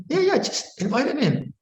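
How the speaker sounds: high, breezy cheerful suggestion; playful advice. Retold or imitated. Monk advising man to invite devil in, breezy. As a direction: toss off the idea lightly.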